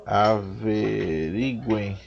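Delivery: "averiguem" stretched syllable by syllable; very slow, careful "averiguem"; sounding out slowly. Real, not acted. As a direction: draw out each syllable of "averiguem". Sounding out a listed verb form.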